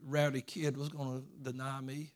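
lightly voiced, hushed grudge; mock inner grumble. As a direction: voice a grudge he never held, quietly. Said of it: "He never thought".

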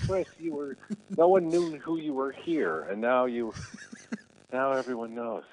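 high-pitched, incredulous protest to a brother; retold reproach, voice lifted way up; exasperated scolding. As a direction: imitate being embarrassed by your brother's antics.

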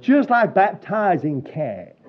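lightly imitated Southern drawl, slow, laughing; a hint of a Southern lady, drawn out. Preacher mimics the American lady, a light Southern drawl. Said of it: "in a wonderful Southern drawl".

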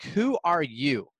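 a hint of an old man's indignant outburst; mock angry yell. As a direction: imitate an offended old man snapping at a kid, half-hearted. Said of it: "almost started yelling at him".

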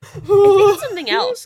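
laughing high goat voice. Acted. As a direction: giggle it as the goat.

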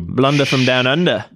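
lightly put-on Aussie twang; hint of a joke Australian accent; mock Australian accent. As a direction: toss it out in playful Australian. Mock Australian catchphrase, told to stop.

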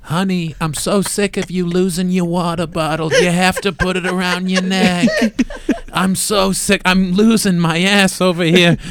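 hammed-up mom scolding about the water bottle; nagging mom. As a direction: play the fed-up mother nagging her son. Voicing the mom in a made-up scene.

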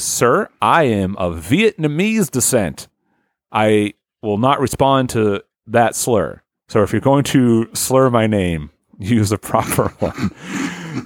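slow, measured mock-formal objection; lightly acted prim protest; affronted dignity. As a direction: correct him with deliberate, careful politeness. Logan primly objects to the slur.

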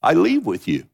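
slow, deliberate scripture quote; slow scripture reading. Acted. Preacher quoting Jesus to the congregation, slow and solemn. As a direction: read the verse slowly and weightily. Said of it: "listen to what Jesus said".

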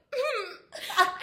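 loud high mock sob through laughter; imitated ugly crying. Host retelling her post-breakup walk out, mock crying. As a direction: fake a sob, half laughing. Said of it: "like, ugly crying".

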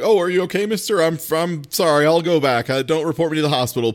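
put-on a touch of a timid child's voice; innocent child. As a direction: ask like a nervous kid caught out. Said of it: "she kinda goes like".

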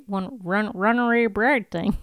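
rubber-mouthed slip on "runaway bride"; tongue-tied. Real, not acted. Co-host fumbling "runaway bride" mid-remark, tongue-tied. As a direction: stumble over "runaway bride" with restarts and muddied sounds. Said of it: "I don't know what happened to my mouth".

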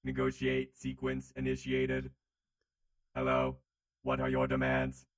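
flat, even robot voice; old speech synthesizer. Acted. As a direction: speak like a stiff robot. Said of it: "I am a robot".

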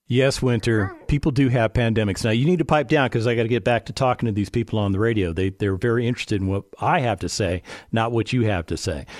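low, firm scolding aside to the dog; telling the dog off. Real, not acted. Host tells his whining dog to pipe down, low and firm. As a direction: put the dog in her place, then back to business.

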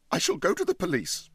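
loud, high sudden shout. Acted. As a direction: burst out with energy. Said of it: "shouted Huddle with sudden energy".

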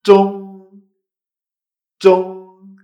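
ZHONG high, level and loud, no puff of air; loud unaspirated ZH opening ZHONG; zh in first tone. Shown as a demonstration. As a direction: hold ZHONG on a high even pitch. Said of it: "se pronuncia con la Z H".

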